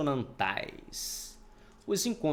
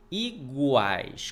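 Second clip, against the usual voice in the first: "Iguais" drawn out, GUAIS given more force; stress on GUAIS. Shown as a demonstration. Teacher asking which vowel is strongest, GUAIS stretched and stressed. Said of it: "pronunciado com mais força".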